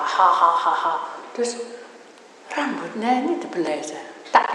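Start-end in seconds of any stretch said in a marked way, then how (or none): 0.0-0.9 mock devil's "ha ha ha"; tawa setan tiruan: imitated devil laugh. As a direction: imitate a demon laughing along, low and punchy. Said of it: "Setannya juga ikut tertawa". (tiruan tawa setan)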